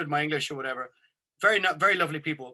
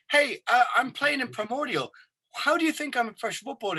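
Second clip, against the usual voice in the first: high and loud, rushing the last line fast; exasperated protest; 8 semitones higher, 3 dB louder than usual. Retold or imitated. Telling the driver he plays in Primordial, high exasperated protest. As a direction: blurt it out, laughing at the mix-up.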